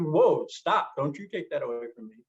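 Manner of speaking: loud, fast firm objection; firm refusal. Retold or imitated. To somebody who told him not to be afraid, a firm protest. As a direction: defend your fear forcefully. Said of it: "And I said".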